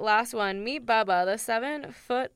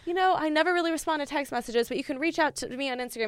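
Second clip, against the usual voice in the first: mock Australian accent; 4 semitones higher, faster than usual. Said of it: "is that British or is that Australian".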